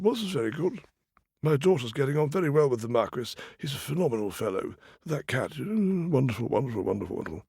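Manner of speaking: musing contentedly to yourself; pleased king. Acted. King thinking about his daughter and the Marquis, lightly pleased.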